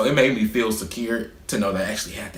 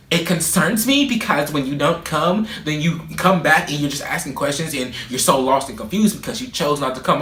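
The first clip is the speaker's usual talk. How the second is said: mock teacher voice; 2 semitones higher than usual. Imitating the teacher scolding him in class, mocking. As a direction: parody her lecturing tone.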